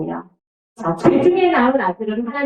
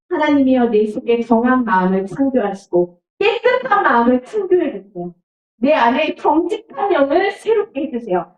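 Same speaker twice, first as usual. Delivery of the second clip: earnest prayer; 4 semitones higher than usual. Acted. Preacher voices David's prayer.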